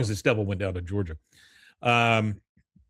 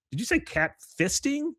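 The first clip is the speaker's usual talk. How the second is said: daughter's disbelief. Retold or imitated. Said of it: "She goes".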